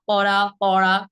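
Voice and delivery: "পড়া" first with a light tapped r, then a pressed retroflex one; tap-then-flap contrast. Shown as a demonstration. Teacher drilling the two r sounds, contrasted. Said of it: "পার্থক্য কিন্তু অবশ্যই আছে".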